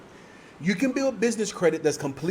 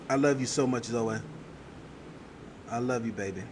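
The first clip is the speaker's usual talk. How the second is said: sweet nothings; 5 semitones lower, 7 dB quieter than usual. Real, not acted. Doting on her daughter Zoe.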